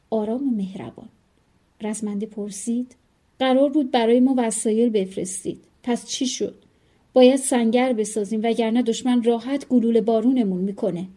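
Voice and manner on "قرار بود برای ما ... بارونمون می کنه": urgent demand. Acted. Fighter urgently demands supplies.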